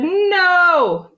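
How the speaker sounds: loud, high, drawn-out no; emphatic arguing shout; stubborn refusal. A narrator's reading. Father quarrels with cashier.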